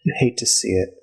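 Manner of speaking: lightly voiced sweet elf lady; a touch of fake sympathy, sing-song; mournful lady, lightly put on; elf woman.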